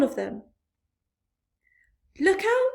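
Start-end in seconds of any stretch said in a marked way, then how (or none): 2.2-2.7 high, loud warning cry. A narrator's reading. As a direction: warn them at full voice. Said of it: "cried James".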